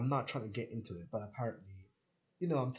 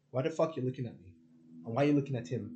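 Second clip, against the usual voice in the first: quick, louder mock challenge; rapid, louder imitated telling-off; mock confrontation; 6 dB louder, faster than usual. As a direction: fire it off at the starers. Acting out confronting starers.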